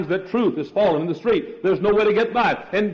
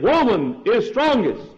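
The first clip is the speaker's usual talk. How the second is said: retold shout; 4 semitones higher than usual. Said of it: "he shouted again".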